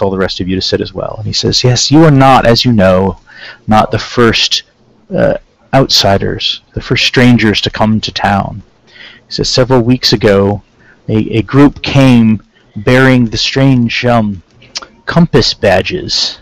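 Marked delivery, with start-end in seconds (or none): 1.6-8.6 put-on measured councilman with a light Terran accent. Councilman introducing himself to visitors, light Terran accent. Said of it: "he has a strong Terran accent". 9.5-16.4 put-on slow, deliberate, lightly Terran-accented councilman. Councilman to visitors about their missing friends, light Terran accent. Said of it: "he has a strong Terran accent".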